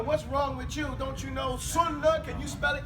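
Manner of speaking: a touch of mock arrogant scolding; mock aggressive. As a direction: scold them like a know-it-all, half in jest. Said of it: "so aggressively accusing these guys".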